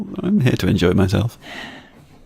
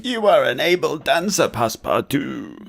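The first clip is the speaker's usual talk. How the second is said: put-on Russian accent; 4 semitones higher than usual. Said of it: "sort of Russian accent".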